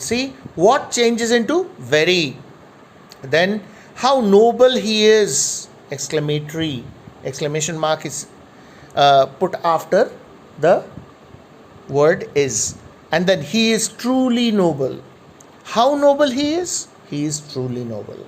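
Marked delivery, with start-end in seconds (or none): 4.1-5.7 exclaiming. Shown as a demonstration. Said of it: "the tone of the voice changes". 15.7-16.7 exclaiming. Shown as a demonstration. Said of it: "the tone of the voice changes".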